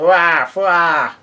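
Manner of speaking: mock crying, drawn-out wahs; imitated baby wail. A narrator's reading. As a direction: imitate a wailing cry, mildly. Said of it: "Pets is crying, and he yells out".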